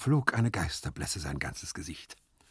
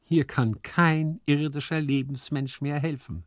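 mildly sighing, raised voice; a touch of lament; sighed resignation; 5 semitones higher than usual. Acted. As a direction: sigh that all is lost. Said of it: "seufzte Hyazinth".

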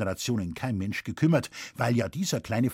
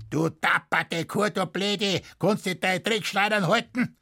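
higher, strained Bavarian scolding; indignant farmer's heckle in broad dialect; irate husband calling out; 7 semitones higher than usual. A narrator's reading. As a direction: berate your wife across the courtroom. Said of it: "rief der Husenbauer seiner Frau zu".

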